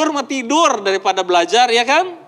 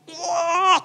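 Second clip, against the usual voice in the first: high mock yell; imitated yelling; 7 semitones higher than usual. People quarreling at close range, imitated yelling. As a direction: imitate a wordless quarrel shout. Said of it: "kenapa dia teriak-teriak".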